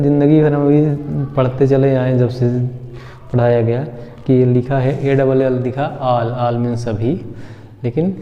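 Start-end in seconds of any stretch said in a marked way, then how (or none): 6.0-6.6 all said as 'aal' with long aa; all with a Hindi आ vowel; mistaken 'aal'. Shown as a demonstration. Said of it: "all नहीं दोस्तों". (all को 'आल' बोलें)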